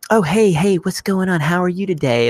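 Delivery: put-on sweet, harmless voice; mock nice guy. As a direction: chirp it like an eager nice guy. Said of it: "this nice guy talking".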